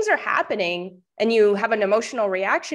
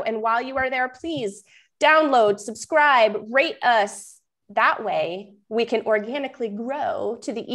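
upbeat host sign-off, pitched up a little; rally listeners to follow and subscribe; podcast outro; 3 semitones higher than usual. Acted. Host asking listeners to follow the show, upbeat outro.

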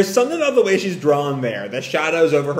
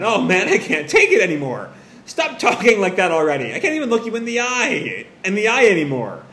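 raised, animated mock helplessness; laughing again; 4 semitones higher than usual. Mother laughing too much to face her guest, high amused voice. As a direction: act overcome with amusement, pitch climbing midway. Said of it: "starts laughing again".

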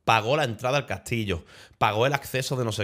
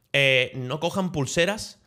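slow, lightly put-on Mexican accent; imitated Mexican accent; much slower than usual. Mexican lad warning the group about bracelets, imitated Mexican accent. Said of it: "imito su acento también".

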